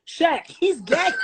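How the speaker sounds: high-pitched amused outcry; laughing alarm. Real, not acted. Telling Shaq the child is gagging, in laughing alarm. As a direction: call it out high, breaking into laughter.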